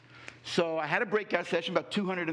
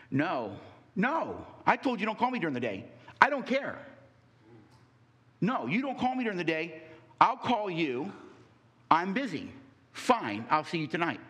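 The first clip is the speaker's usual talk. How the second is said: curt angry phone call. Acted. Staged call to his wife in front of the class, harsh and dismissive. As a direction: brush him off hard, then a cold goodbye. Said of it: "You just talked to her that way?".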